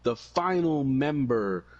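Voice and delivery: drawn-out ring announcement; slow, dramatic wrestling reveal; slow announcer build. Retold or imitated. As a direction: stretch it out like a big reveal. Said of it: "he comes out and he says".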